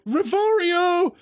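high, drawn-out spell cry; panicked incantation. Acted. Pupil casting a spell at the attacking dummy, high incantation. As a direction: fling out the magic words. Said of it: "I guess I just go".

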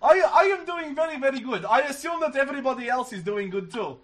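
hammed-up polite gentleman; put-on polite voice. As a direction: answer like an overly courteous foreigner. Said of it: "do this voice for the whole night".

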